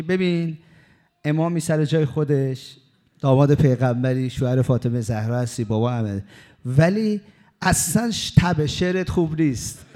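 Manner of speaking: با دلخوری و صدای بالا گله کن; عصبانی. Retold or imitated.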